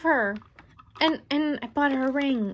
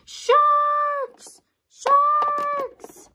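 high, loud panicked warning; alarmed; 10 semitones higher, 4 dB louder, much slower than usual. Pretend. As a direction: cry out in mock panic. Spotting sharks below the ship.

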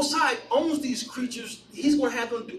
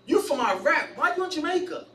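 baffled questioning; 6 semitones higher than usual. Retold or imitated. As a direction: pitch climbing in mock bafflement. Retells his baffled question.

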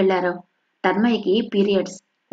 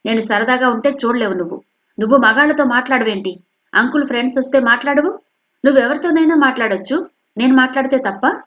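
resentful daughter, higher and louder; fuming; 3 semitones higher, 4 dB louder than usual. Acted. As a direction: grumble angrily at mother. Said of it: "రుసరుసలాడుతూ".

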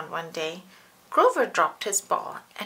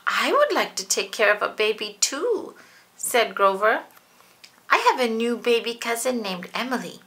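lightly voiced eager Grover; a hint of proud furry monster; 4 dB louder than usual. Reads Grover's lines.

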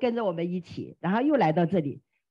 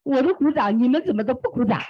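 imitated excitement. Newcomer asks the crowd why nobody claps, imitated excitement. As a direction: act out an excited newcomer, rising toward the end. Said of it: "他很兴奋，哇，声音比我还大".

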